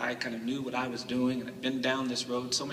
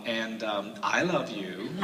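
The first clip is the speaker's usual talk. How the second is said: insincere; 3 semitones lower, much slower than usual. Retold or imitated. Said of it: "as insincerely as I possibly could".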